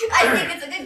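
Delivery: high, drawn-out excited discovery; excited find. Retold or imitated. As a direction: squeal it out like a proud treasure find. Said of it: "And then she's like".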